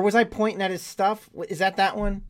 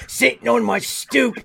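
put-on slow, higher, shouted Baltimore accent; 4 semitones higher, slower than usual. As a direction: holler it in hammed-up Baltimore dialect. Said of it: "you're doing the accent all wrong".

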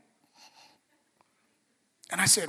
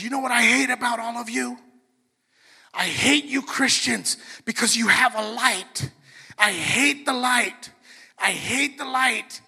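higher, louder, hate-filled rant; mock angry Satanist rising in fury; upset outburst; 4 semitones higher, 5 dB louder than usual. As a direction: spit out the hatred of the light, slowing at the end. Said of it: "she gets upset, and she stands up".

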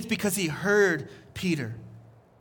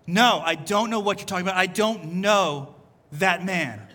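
insistent, slowing on "don't know that man"; acted firm denial. Peter denying Jesus to a questioner, firm and deliberate. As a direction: brush it off, then stretch "know".

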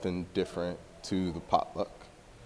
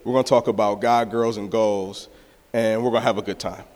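hyped announcement; 3 semitones higher, 5 dB louder than usual. Retold or imitated. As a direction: pitch it to the guys excitedly. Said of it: "I was like".

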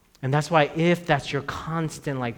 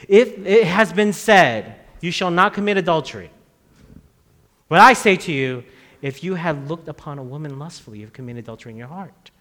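Jesus's teaching, preached; 8 dB louder than usual. Retold or imitated. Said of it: "Jesus was constantly saying".

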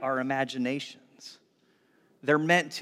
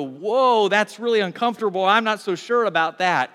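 louder, taken-aback objection; uneasy reaction; 4 semitones higher, 5 dB louder than usual. Acted. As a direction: balk at it, raising your voice. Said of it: "might cause you to go".

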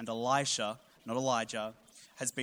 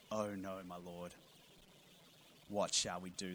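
frightened servant; 5 semitones lower, 11 dB quieter than usual. Acted. Frightened servant voiced in story.

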